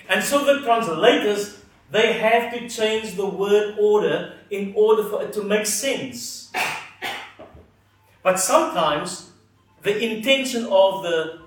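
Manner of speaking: ordinary talk, nothing marked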